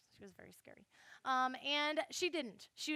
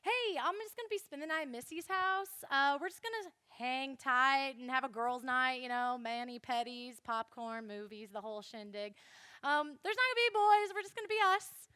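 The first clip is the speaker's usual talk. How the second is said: innocent fib; 3 dB louder than usual. Retold or imitated. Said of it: "so I told my mom".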